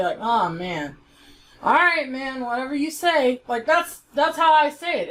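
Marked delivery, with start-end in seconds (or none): 0.2-3.4 a mildly pitiful, deflated "Aw, man". Shown as a demonstration. Vlogger showing how he himself says "man": mildly pitiful. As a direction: sigh it out like a let-down guy saying "man". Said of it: "I say it in, like, a, a pitiful way".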